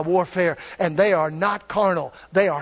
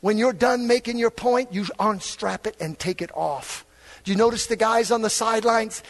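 usual speaking voice

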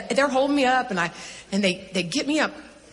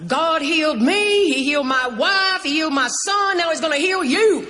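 put-on southern accent with authority; 7 semitones higher, 5 dB louder than usual. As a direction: declare it like a Southern faith healer. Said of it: "he's got this southern thing going on".

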